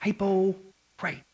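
hypocrite stretched slow in a Southern drawl. Retold or imitated. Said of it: "as they would say down south".

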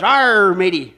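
loud pirate arr; hammed-up pirate greeting. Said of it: "And the pirate goes".

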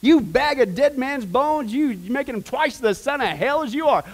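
loud, high, forceful denunciation; Jesus. Acted. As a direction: hurl the rebuke out slowly and loudly. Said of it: "He got loud".

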